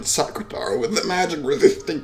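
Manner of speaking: acted tearful protest, breaking at the start; tearful yelling. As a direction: beg them to stop through mock tears. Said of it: "yelling at me as tears streamed down her face".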